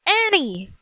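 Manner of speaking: high, urgent falling cry. Acted. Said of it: "he cried".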